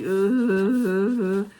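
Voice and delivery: loud annoyed groan; disgusted ugh. Retold or imitated. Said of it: "just making that noise in my head".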